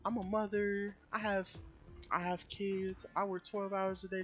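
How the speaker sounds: high-pitched mock mother voice; protesting customer. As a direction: imitate a woman pleading her hardships. Acting out the customer's self-pitying protest.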